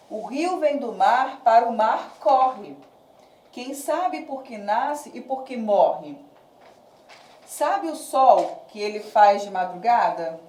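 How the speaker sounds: slow, measured verse reading; deliberate classroom reading of a poem; poem recitation. Acted. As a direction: recite line by line with pauses. Reads poem example aloud.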